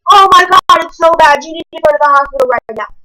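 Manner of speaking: high, loud panicked gasp of alarm; mock a teammate freaking out; alarmed captain. Captain panicking at the sight of the cut, high and loud. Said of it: "our other captain was like".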